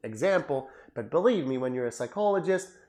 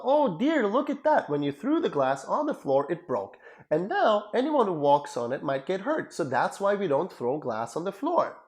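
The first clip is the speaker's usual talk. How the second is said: a lightly voiced calm, reassuring dad, pitched higher; gentle father; 4 semitones higher than usual. Father comforting his child after a broken glass, gently reassuring. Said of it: "One father says to their child".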